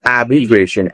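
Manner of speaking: आर्बिट्रेशन said the right way, as the teacher models it; teacher's careful आर्बिट्रेशन; correct pronunciation. Shown as a demonstration. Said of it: "पर हमें बोलना क्या है".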